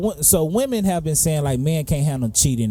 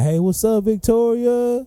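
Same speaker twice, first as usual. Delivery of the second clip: higher, drawn-out flirty greeting; mock flirty guy; 9 semitones higher, slower than usual. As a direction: imitate the guy hitting on her, stretching Victoria. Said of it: "man, saying".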